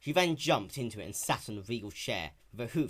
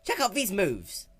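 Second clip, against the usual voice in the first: showing off; 9 semitones higher, 6 dB louder, slower than usual. Acted. Rainbow showing off.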